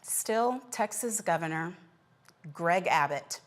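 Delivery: measured anchor read with deliberate pauses; news read. Acted. Anchor telling viewers about migrants shipped from Texas, news read.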